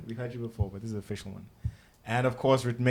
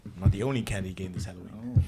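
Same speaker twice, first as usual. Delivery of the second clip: a lower, sultry podcast voice; sultry narrator; 4 semitones lower, 4 dB louder than usual. Pretend. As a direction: play the seductive radio host. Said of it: "I'm gonna try speak in my deep, sultry podcast voice".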